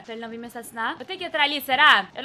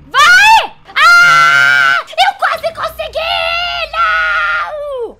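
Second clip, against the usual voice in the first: high frantic gaming screams; screaming; 12 semitones higher, 14 dB louder, much slower than usual. Real, not acted. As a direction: shriek in frustration. Screams at a game failure.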